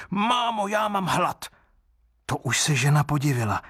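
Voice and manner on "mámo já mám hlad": put-on very high little-child voice, slow and demanding; a hungry wooden baby whining for food; greedy child crying out. A narrator's reading. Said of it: "A pak zase křičel".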